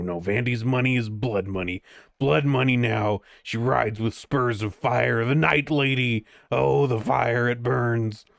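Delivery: put-on bitter old man cursing his neighbours; angry old man voice. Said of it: "a very kind of angry old man voice".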